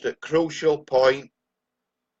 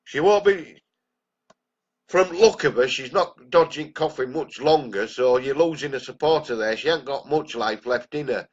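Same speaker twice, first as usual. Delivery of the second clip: angry rant; 3 semitones higher, 3 dB louder than usual. Real, not acted. Vlogger mocking the councillor's old supporter, bitter scorn. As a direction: sneer at her with real anger.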